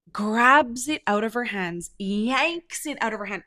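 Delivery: drawn-out, punched grabs and yanks; stress on yanks. Shown as a demonstration. Telling how the bartender snatched the can, stretched emphasis on yanks. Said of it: "when I say yanks it".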